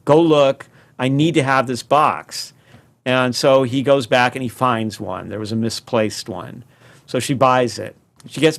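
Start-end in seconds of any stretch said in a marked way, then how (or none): 0.0-2.5 urgent mock-frantic insistence, loud on go look; frantic demand. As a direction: retell her desperate plea with mild urgency. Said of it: "And she's frantic".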